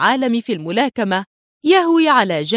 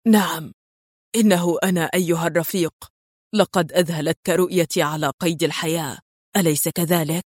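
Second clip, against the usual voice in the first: lower, cold foreign voice, lightly voiced; cold eastern voice; 4 semitones lower than usual. A narrator's reading. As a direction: gloat coolly like a returning enemy. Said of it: "صوت شرقي بارد".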